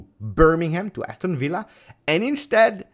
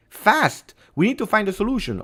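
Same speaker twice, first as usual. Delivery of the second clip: much higher, louder rush against the clock; urgent build; 11 semitones higher, 5 dB louder than usual. Real, not acted. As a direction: press the urgency, getting faster.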